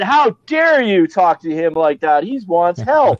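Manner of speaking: indignant scolding. Retold or imitated. Ambulance driver scolding a cop for him, indignant mock telling-off.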